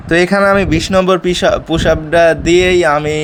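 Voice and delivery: out of breath. Real, not acted. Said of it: "heavy হাঁপিয়ে গিয়েছি".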